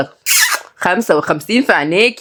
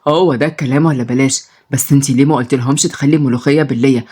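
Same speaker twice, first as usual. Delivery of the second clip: lower, greedy lad; boy craving pickles and garlic, lower voice; hungry boy; 5 semitones lower than usual. Acted. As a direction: dream about food, low.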